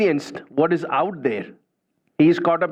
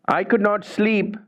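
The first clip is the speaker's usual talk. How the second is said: hurried denial; 4 semitones higher than usual. Retold or imitated. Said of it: "She goes".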